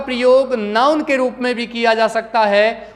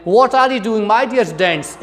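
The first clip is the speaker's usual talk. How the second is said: quicker imitated British accent; British-accent demonstration; much slower than usual. Shown as a demonstration. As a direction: run it together in a British accent. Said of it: "British लहजे से बोलें".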